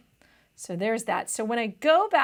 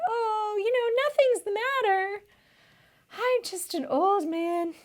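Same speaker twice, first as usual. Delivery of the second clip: put-on pleading old man; 8 semitones higher than usual. Tutor voicing old Nawab begging his boss to fire him, high pleading old man. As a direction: play the weary old servant begging to be let go.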